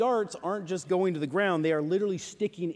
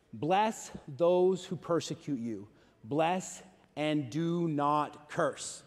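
scripture reading; 3 semitones lower, slower than usual. Acted. Reads scripture slowly.

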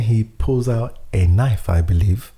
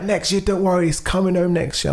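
higher, upbeat consoling voice; mock-chirpy football fan; hopeful fan; 10 semitones higher than usual. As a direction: promise it's coming home. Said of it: "They're like".

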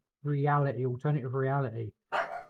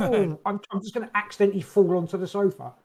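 higher, louder pretend-innocent dog voice; mock-innocent pet voice, pitched up; voicing the dog; 5 semitones higher, 5 dB louder than usual. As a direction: play the sneaky dog acting casual. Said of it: "He's, like, stretching, like".

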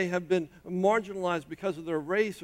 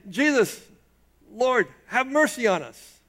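calling out to Jesus, higher and louder; a louder plea for mercy; louder cry; 4 semitones higher, 4 dB louder than usual. Retold or imitated. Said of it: "they say it louder".

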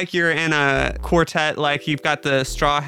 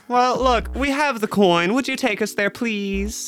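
posh fancy voice; 6 semitones higher than usual. Acted. Player in fancy voice.

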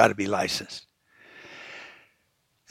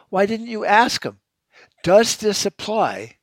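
incredulous demand; 7 semitones higher, slower than usual. Retold or imitated. Confronting brother about council vote.

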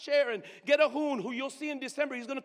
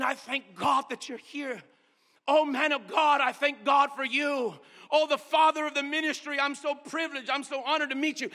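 grateful woman; 3 semitones higher, 5 dB louder than usual. Retold or imitated. Weeping woman praising him.

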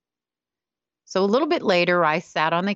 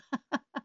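soft laugh; 11 dB quieter than usual. Real, not acted. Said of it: "I kinda lost it".

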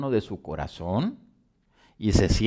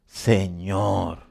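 lower, softer, drawn-out address; mildly awed, humbled plea; understated fearful reverence; 4 semitones lower, 5 dB quieter than usual. Retold or imitated. Preacher voicing the fearful Saul addressing the Lord, understated awe. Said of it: "Él, temblando y temeroso".

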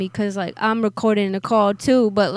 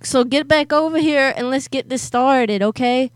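prank caller voice; 2 semitones higher, 4 dB louder than usual. Acted. Prank caller persona ordering.

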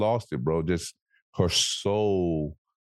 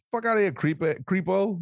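much higher mock brush-off; imitating annoyed shoppers; 11 semitones higher than usual. Shoppers rejecting the hug guy, high and mocking. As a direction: squeak out a dismissive rejection. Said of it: "And everybody's like".

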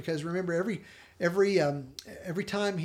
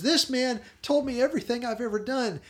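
raised, louder, joyful retold announcement; beaming; 7 semitones higher, 5 dB louder than usual. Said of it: "she's just beaming at this point".

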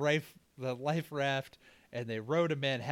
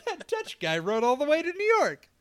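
mock New Yorker; 13 semitones higher, 7 dB louder than usual.

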